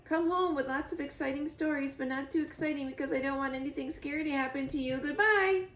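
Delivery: high, quick, anxious goodbye; bidding the gosling goodbye, fast and high; fond farewell. Acted. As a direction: send him off with nervous love. Emotional farewell.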